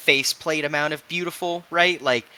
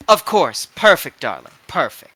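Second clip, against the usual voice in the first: gushing fashionista; 3 semitones higher, 6 dB louder than usual. Acted. Fashionista delighted with player's retort.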